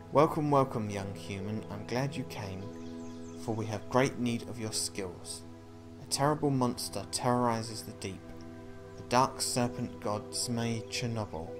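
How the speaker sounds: stately quest-giver, loud opening welcome; lightly voiced Chief Fish. Chief Fish asks human to slay monster, stately appeal. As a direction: welcome grandly, then state the need with weight.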